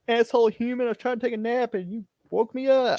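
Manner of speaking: high-pitched, cranky creature roused from a nap; grumpy woken creature. Acted. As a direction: play a grouchy monster snapping at the human who woke it.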